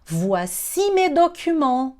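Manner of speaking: slow, careful model phrase; slow teaching demo. Shown as a demonstration. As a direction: lay it out slowly for learners. (demonstração pausada)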